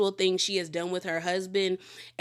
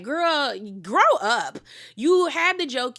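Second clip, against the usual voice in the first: louder and higher, telling her off; scolding; 5 semitones higher, 4 dB louder, slower than usual. Retold or imitated. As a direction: snap at her to grow up. Scolding Whitney in retelling.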